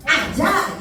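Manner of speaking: punchy two-beat "아자!"; rallying cheer. Shown as a demonstration. Instructor showing the class the response to two claps, punchy cheer. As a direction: cheer it out crisply. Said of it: "이렇게 할게요".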